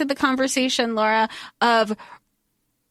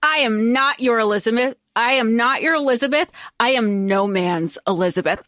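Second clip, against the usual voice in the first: a hint of a queen declaring her independence; lightly acted defiant queen. Elizabeth defying Robert on the dance floor, mildly proud and firm. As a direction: say it like a proud queen refusing a claim, understated. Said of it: "say it".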